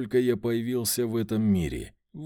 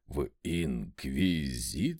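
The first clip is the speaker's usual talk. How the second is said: low, slow stuttered question; frightened stammer; 10 semitones lower, slower than usual. A narrator's reading. Servant blanches at being asked about the Inquisition, frightened stammer. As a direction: stumble through the word in fear. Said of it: "заикаясь и белея лицом".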